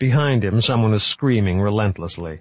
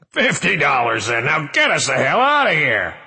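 laughing; 6 semitones higher, 4 dB louder than usual. Acted. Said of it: "couldn't stop laughing".

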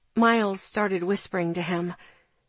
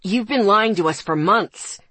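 loud hurt shout; 4 dB louder than usual. Acted. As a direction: throw her apology back, shouting. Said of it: "he shouted".

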